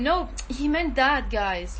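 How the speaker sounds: a touch of retold exasperation, pitch dropping at the end; mildly annoyed. Defending the young one from people laughing, mildly annoyed. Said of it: "annoyed way".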